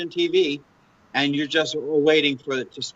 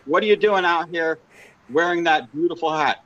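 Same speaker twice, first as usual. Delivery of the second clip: mock news reporter; 2 semitones higher than usual. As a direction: pretend to stop someone for an on-the-spot interview. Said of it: "this is Bill Pierce with".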